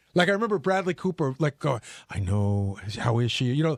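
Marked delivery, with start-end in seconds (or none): 2.1-3.7 put-on sympathetic sad voice, very low, very slow. Speaker recalls fans asking how Robin was, Bradley Cooper's put-on sad voice. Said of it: "they would put on their sad voice".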